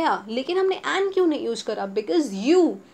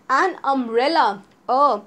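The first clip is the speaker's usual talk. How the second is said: an umbrella drawn out, louder; very slow model; 5 dB louder, much slower than usual. Shown as a demonstration. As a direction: stretch an umbrella out for the class. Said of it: "teacher modelling examples".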